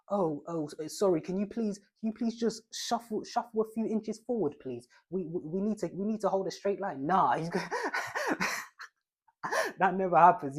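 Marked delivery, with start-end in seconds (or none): 0.1-7.1 higher, hesitant, apologetic asking; a meek keeper asking too nicely; overly polite goalkeeper. Pretend. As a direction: politely beg him to step forward. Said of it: "not gonna come up to you like".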